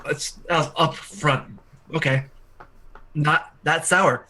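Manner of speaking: slow, strained after choking; recovering from a cough. Real, not acted. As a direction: catch your breath after coughing. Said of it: "went down the wrong pipe".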